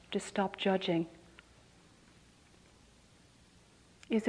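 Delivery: measured questions with long pauses; guided contemplation. Real, not acted. Teacher asking listeners to stop in this moment, guided contemplation. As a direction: pose each question, then leave silence to reflect.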